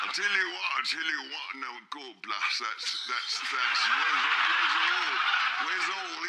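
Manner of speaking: shifting yokel accent, hammed up and loud; mock West Country accent. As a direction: cricket commentary in a put-on West Country accent. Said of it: "you are changing your accent throughout this performance".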